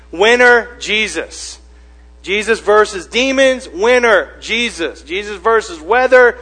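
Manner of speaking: loud, high calls with dropping answers; fight announcer. Acted. Announcer calling Jesus's wrestling rounds, loud and punchy. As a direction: punch out each bout's result like a ring announcer.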